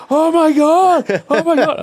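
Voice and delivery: high, loud, drawn-out fan squeal; starstruck squeal. Retold or imitated. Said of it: "I'm like".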